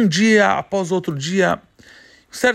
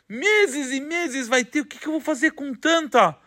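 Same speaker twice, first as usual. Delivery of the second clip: overwhelmed farmer; 6 semitones higher than usual. Acted. Farmer overwhelmed by his celery.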